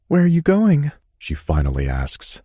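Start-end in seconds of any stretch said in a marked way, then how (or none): 0.1-0.9 high, demanding woman's voice with an edge; tremulous demanding woman. A narrator's reading. Anna anxiously demanding where Mason is going. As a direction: press him for an answer, worried. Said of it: "a tremor in her voice along with the demanding edge".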